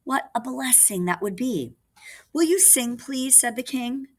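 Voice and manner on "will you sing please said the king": high, pleading puppet king. Acted. King asking the girl puppet to sing, high. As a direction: ask sweetly, up high.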